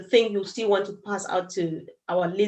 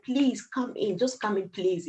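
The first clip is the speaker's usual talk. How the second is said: imitated pleading; 3 dB quieter than usual. Co-host quoting a friend coaxing newcomers, mildly pleading. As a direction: act out a friend's mild begging. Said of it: "I am really pleading".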